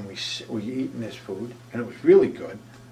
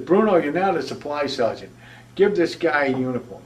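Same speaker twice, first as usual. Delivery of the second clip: raised, louder commanding voice; barked order; 4 semitones higher, 6 dB louder than usual. Retold or imitated. First sergeant orders Bruno to hand over a uniform, loud command.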